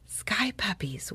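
slow, hushed whisper; awed whisper. A narrator's reading. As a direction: whisper it slowly in wonder. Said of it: "whispered Tuffy".

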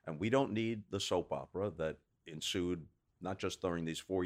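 lightly voiced stump-speech pitch to the viewers; DeSantis campaign speech. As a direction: play the calm, reasonable politician turning on his old boss. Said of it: "see him looking into the camera and saying".

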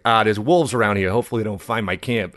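lightly imitated Boston accent; a hint of mock Boston. Survivalist worrying about wolves near camp, light Boston accent. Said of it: "a heavy Boston accent".

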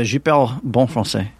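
French spoken on request; French accent. Shown as a demonstration. Asked how the French accent is, answers in French accent. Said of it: "how's the French accent over there".

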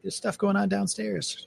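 high, slow, soft little-dog voice; voicing the dog. Streamer voices his whining dog Scrappy, high and slow. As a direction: talk for the whining chihuahua. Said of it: "She's like".

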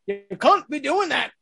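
CAN'T said in a put-on accent with a broad "ah". Park performer retelling a line from a kids' show, put-on accent. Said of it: "I said it with an accent".

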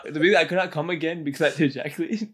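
laughing. Real, not acted. Rereads rude sentence, cracking up.

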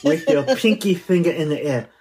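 lightly put-on bad French accent; a hint of mock French, pinky up. Teasing his co-host in a mild mock French accent. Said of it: "your French accent is terrible".

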